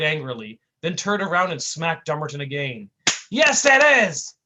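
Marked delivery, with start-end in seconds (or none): 3.3-4.3 slow, loud, high shout. Acted. Tough guy yelling at his partner, loud slow shout. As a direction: bellow it at the idiot. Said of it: "he shouted".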